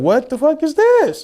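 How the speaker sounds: high, drawn-out disbelief; retold shock. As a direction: act out stunned bewilderment, pitched right up and slow. Acts out shock at seeing tubes.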